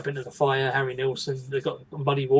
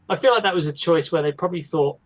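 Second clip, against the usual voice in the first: ordinary talk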